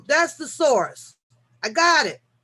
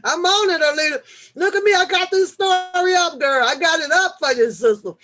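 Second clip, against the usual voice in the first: excited; 5 semitones higher, 5 dB louder than usual. Real, not acted. Loud excited reply to Alita.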